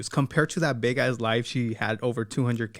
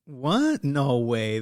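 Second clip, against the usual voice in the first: high, overdone shocked what; mock surprise; 3 semitones higher than usual. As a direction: fake gasp of shock. Fake surprise at real DMs.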